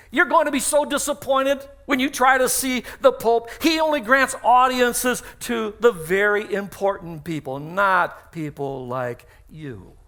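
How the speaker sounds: condescending put-down, slowing at the end; disbelieving scorn. Retold or imitated. Hairstylist to salesman, condescending and slowing. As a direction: sneer down at the customer, slowing to a drawl. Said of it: "shook his head in disbelief".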